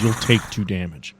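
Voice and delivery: normal talking voice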